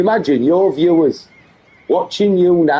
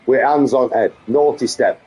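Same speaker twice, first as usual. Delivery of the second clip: mock-stern Yorkshire daddy; put-on Yorkshire accent. Streamer threatening the naughty step, put-on Yorkshire accent. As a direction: scold in a daft Yorkshire accent. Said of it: "this daft Yorkshire accent he goes into".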